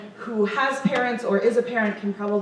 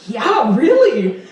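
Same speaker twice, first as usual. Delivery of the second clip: laughing echo; 6 dB louder, much slower than usual. Retold or imitated. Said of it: "and I'm like".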